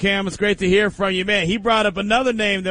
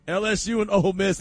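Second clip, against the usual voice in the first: laughing redo; 5 semitones higher than usual. Real, not acted. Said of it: "Hold up, hold up".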